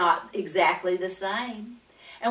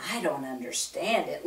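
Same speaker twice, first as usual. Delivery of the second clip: wondering; 5 semitones lower, 5 dB quieter than usual. A narrator's reading. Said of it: "Lucia wondered".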